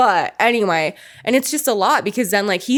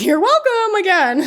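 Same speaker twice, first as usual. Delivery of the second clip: smug mock brag; 10 semitones higher than usual. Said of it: "And I'm like".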